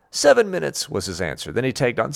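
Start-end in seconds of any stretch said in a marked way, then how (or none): 0.1-0.9 put-on higher and louder, insistent child; lightly voiced insistent kid; kid counting down. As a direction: announce it like an impatient little boy.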